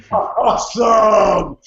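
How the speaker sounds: slow, drawn-out shout of Awesome; excited shout. Retold or imitated. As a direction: stretch out Awesome like a joyful cheer. Thrilled reaction to the news.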